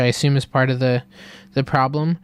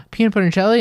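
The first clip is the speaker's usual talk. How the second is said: higher, louder, rising delighted question; mock thrilled kid; 8 semitones higher, 7 dB louder, much faster than usual. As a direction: squeal it like a kid getting a treat. Girl excited in retold ad.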